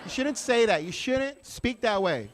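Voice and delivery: scolding white lady. Retold or imitated. White lady correcting the comic, high-pitched mock scolding. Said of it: "White ladies all the time, they come up".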